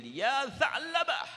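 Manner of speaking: loud, high, drawn-out call across the hills; long call. Acted. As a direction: call his name slowly from far away. Umar calls the boy from hiding.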